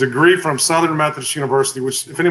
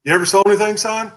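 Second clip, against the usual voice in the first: higher-pitched imitation of an Oklahoma boss; country older man; 7 semitones higher, faster than usual. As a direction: play a country manager quizzing a youngster. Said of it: "He's country as hell".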